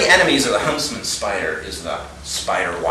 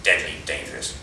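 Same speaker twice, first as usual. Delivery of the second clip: low, hushed imitation of a colleague; Jeff warning; 8 semitones lower, 8 dB quieter than usual. Colleague warning of a dangerous spider, hushed. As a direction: drop low and soft for an ominous warning. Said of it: "He said".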